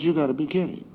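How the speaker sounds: high-pitched retold disbelief. Man told his buddy is dead, in disbelief. Refusing news of friend's death.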